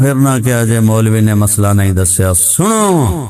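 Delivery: mock village cleric summoning listeners; lightly imitating a rustic preacher's call. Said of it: "تو انہوں نے کہا". (دیہاتی مولوی کی نقل، لوگوں کو پکارتا ہوا)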